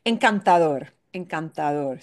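encantador with main weight on final "dor"; encantador, lighter secondary beat before a stressed "dor". Shown as a demonstration. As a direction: punch the end of encantador. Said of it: "maybe a secondary stress".

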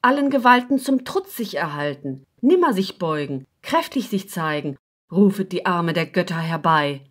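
measured verse recitation with short pauses between lines; poem recitation. Acted. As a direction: recite the verse phrase by phrase, rhythmically. (Gedichtvortrag, rhythmisch und getragen)

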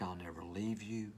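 slow, gentle voice of God; tender reassurance. Acted. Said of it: "He says things like".

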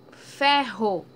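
"Ferro" loud, rr drawn out; strong prolonged rr. Shown as a demonstration. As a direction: stretch the rr in "Ferro". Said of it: "um som mais prolongado, um som mais forte". ("Ferro" com rr forte e prolongado)

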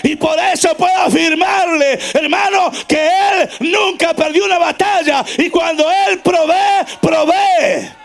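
ringing sermon delivery, key words drawn out; full-force preaching. Acted. Preacher affirming God never lost a battle, full-force preaching. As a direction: proclaim it to the congregation.

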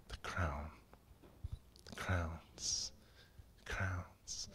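soft, low, near-whispered awe; hushed reverence. Real, not acted. Preacher savouring the promised crown, hushed reverence. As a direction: drop to a reverent hush, lingering between words.

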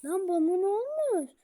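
loud, rising protest; indignant disbelief. Real, not acted. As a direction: raise your voice in baffled protest. Protests a game mishap. (şaşkın ve isyankâr)

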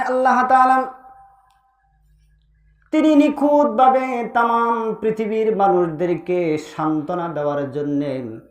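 measured, musical preacher's delivery; melodic preaching. Real, not acted.

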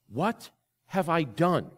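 slow, drawn-out, hollow lament; anguished repeat. Retold or imitated. Echoing the friend's question to the congregation, slow and anguished. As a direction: stretch it out as if reliving the pain. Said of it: "he said these words with such grief and such pain".

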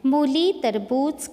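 मूली with मू loud and high; stress on मू. Shown as a demonstration. Teacher repeats words, stressing the long ऊ. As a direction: lean on मू and बू. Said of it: "देखिए मू, बू".

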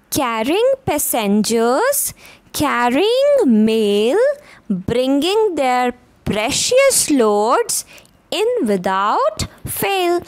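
sing-song rhythmic poem reading, slowing at the end; poem recitation. Shown as a demonstration. Teacher reciting to young pupils, rhythmic and lilting. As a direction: chant each line with a lift for the class.

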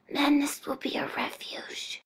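slow, breathless whispered curse; whispering. Acted. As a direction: let the threat fade to a whisper. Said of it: "virtually whispering by the time".

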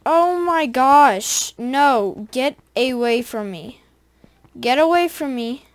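loud, drawn-out dismay, then commands; alarmed yelling. Real, not acted. Gamer fending off monsters in the game, alarmed yelling. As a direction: yell to drive it off.

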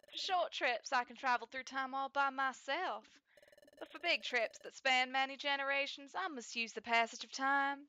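lightly Southern lady; Celebi, Southern accent. Acted. Celebi explains her time travel, Southern accent. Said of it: "your Southern accent sucks".

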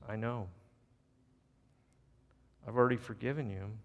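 soft, low, unhurried reassurance; gentle forgiveness. Acted. Grandma to her confessing grandson, softly forgiving. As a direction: tell it tenderly, with quiet knowing.

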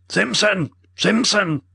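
high, loud call down the hall; roaring a name. A narrator's reading. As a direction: bellow for the guard from far off. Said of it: "roared Mortimer".

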